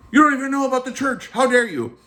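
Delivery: high, quick, hammed-up how dare you; mock indignation. What the calm priest never said to Rex, mock indignant. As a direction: fake a huffy priest's outburst.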